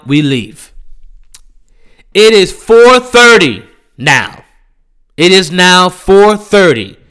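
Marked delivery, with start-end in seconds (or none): 2.1-4.4 deadpan fed-up. Real, not acted. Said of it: "slow fed-up statement". 5.2-7.0 deadpan fed-up. Real, not acted. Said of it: "slow fed-up repeat".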